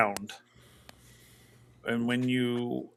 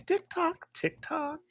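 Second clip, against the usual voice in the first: gusting windy whisper. Acted. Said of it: "you'll hear on the wind that voice comes back in".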